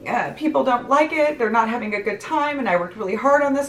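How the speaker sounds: high-pitched mock tearful complaint; imitated sobbing. Imitating cousin's wife upset at her party, mildly tearful. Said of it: "She's, like, sobbing".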